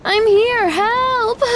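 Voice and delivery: high, hoarse, desperate yell; hoarse scream. Acted. Trapped girl calling for rescue.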